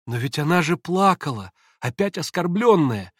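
a restrained cry of objection; distressed cry. A narrator's reading. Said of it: "вскричал Алёша".

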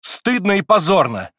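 put-on high, loud, shaking young voice; trembling boyish voice. A narrator's reading. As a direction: cry out, trembling with emotion. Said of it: "отроческим голосом, дрожащим от волнения".

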